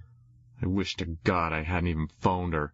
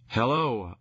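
yelled hello; 4 semitones higher than usual. Retold or imitated. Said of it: "I sort of yelled it".

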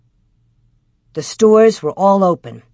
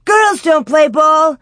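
high, loud schoolboy protest; shout; 9 semitones higher, 5 dB louder than usual. A narrator's reading. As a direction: shout it slowly, pitched well up. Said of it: "they shouted".

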